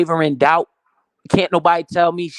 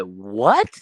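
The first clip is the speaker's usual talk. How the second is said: breathy whispered disbelief; whispered shock; 5 semitones lower than usual. Retold or imitated. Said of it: "She said".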